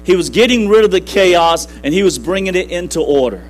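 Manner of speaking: emphatic, driving sermon delivery; rousing preaching. Real, not acted. Preacher urging the congregation toward order over chaos, rousing preaching. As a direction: preach it with rising fervor, punching the key words.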